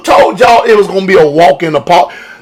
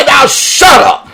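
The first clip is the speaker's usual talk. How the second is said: mock dismissive; 4 semitones lower, slower than usual. Mocking congregation telling God shut up.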